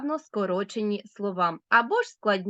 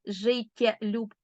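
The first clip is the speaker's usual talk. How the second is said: slow answer word; slower than usual. Shown as a demonstration. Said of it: "А тепер перевіряємо".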